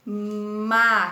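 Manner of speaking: teacher sounding out MA-CA-RRÃO; reading syllable by syllable. Shown as a demonstration. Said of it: "vou ler com vocês".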